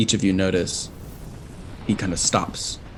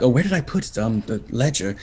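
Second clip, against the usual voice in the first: flustered excitement; 3 semitones higher than usual. Acted. Imp professor fumbling for his ledger, excited. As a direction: search for the ledger in a happy fluster. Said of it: "in surprise and excitement".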